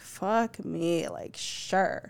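mock-defeated agreement; resigned giving in. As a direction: give in reluctantly, voice dropping. Parent gives in to begging.

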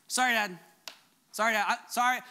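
"Sorry, Dad" tossed off quick and dutiful, a mild imitation; rote kid apology. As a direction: rattle off "Sorry, Dad" like a kid just saying it. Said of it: "There's a difference".

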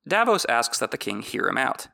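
ordinary talk, nothing marked

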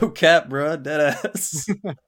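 mock Gen Z slang, laid-back; trying too hard cool. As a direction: play it like a teen bro. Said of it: "fucking Gen Z Phil coming out to play".

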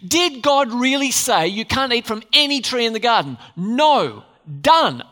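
emphatic rhetorical answer. Real, not acted. Preacher to the church, a loud final no. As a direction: snap the no and done.

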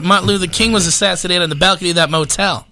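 lightly Gump-like earnest recounting; Forrest Gump. Real, not acted. Comedian defends himself with his Memphis visit, a hint of Forrest Gump. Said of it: "now he sounds like Forrest Gump".

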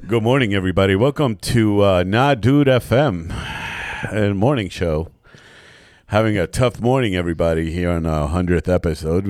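smooth morning radio host; lightly voiced DJ patter. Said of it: "do your best radio voice".

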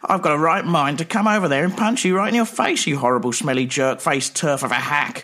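angry threat. Acted. Sketch, furious threat.

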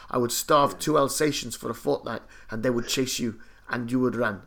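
matter-of-fact threat, lightly Afrikaans-sounding; accidental Afrikaans accent. Retold or imitated. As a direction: imitate the chef with an Afrikaans lilt. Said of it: "I sound Afrikaans when I was doing that impersonation".

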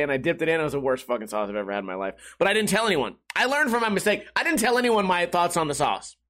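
ordinary delivery

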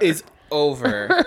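high, loud, drawn-out proclamation; triumphant. Acted. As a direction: announce it grandly. Echoing triumphant ending.

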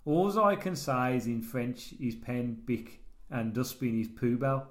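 slow, laboured reading in broken English; Rob K. Acted. Host reads listener's letter to co-host, slow character voice. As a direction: read it as a halting, earnest simpleton.

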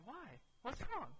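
very high, squeaky denial; mock nonchalance. Exhausted student answering worried office staff, mock nonchalance. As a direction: pretend all is fine in a strained high voice. Insists he is fine while exhausted.

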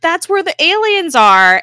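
loud, high imitated alarm; upset outburst. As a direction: raise voice and pitch as the upset group. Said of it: "they're all upset".

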